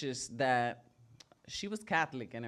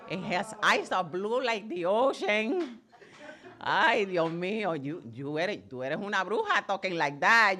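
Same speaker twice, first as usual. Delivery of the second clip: higher, louder, slow indignant abuelita; indignant grandma; 4 semitones higher, 4 dB louder than usual. Retold or imitated. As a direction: insist like an offended devout grandmother. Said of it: "she'd be like".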